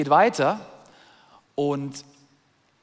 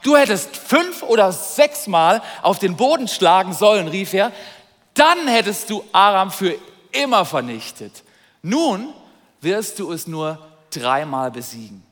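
angry prophet; 5 dB louder than usual. Acted. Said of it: "der wird sehr zornig mit ihm und sagt".

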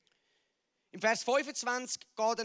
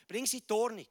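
firm urging; faster than usual. Acted. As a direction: repeat it as a firm command.

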